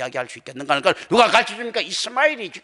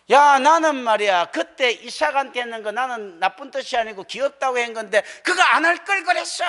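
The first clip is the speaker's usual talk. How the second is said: regretful Abraham; 4 semitones higher than usual. Acted. Abraham voiced regretting to Isaac.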